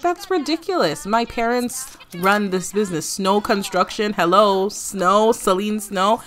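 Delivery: high, loud, offended protest; indignant. Pretend. Young boss insisting her parents own the business. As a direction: huff it out like the boss's daughter. Celine indignant in voiced scene.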